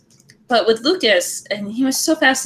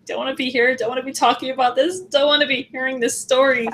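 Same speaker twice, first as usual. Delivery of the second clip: acted uncomfortable reluctance; 4 semitones higher than usual. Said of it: "that kind of conversation where it's like".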